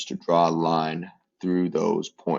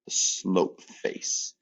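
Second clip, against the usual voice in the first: whispered name; 7 dB quieter, much slower than usual. Shown as a demonstration. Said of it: "this is what I call".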